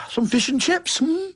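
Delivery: stuttering movie character. Retold or imitated. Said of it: "when the guy's stuttering".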